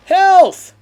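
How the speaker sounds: desperate high shout; panicking gamer. Real, not acted. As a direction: yell for the pickup in relief. Grabbing health pickup when low.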